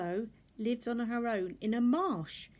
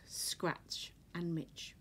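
whisper; 3 semitones lower, 7 dB quieter, much slower than usual. Acted. Names whispered in story.

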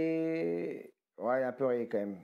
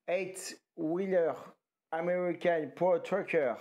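mock English accent; 4 semitones higher, much slower than usual. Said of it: "mon anglais, il est frais".

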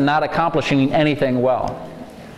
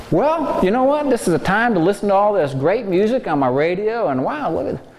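upbeat positive voice; 3 semitones higher than usual. Shown as a demonstration. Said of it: "This is the choir voice".

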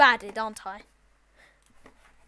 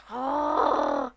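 long, drawn-out gasp; demonstrated gasp. Shown as a demonstration. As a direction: show off an exaggerated gasp. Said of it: "What, like this?".

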